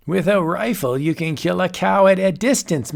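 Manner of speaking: a mad sorcerer toying with his guest; chuckling old warlock; old wizard. Acted. Wizard character speaks.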